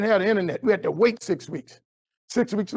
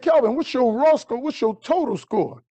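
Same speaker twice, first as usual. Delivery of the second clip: a hint of a surprised teacher, pitched higher; lightly voiced teacher; 5 semitones higher than usual. Teacher Miss V reacting to Kelvin's score, lightly voiced higher.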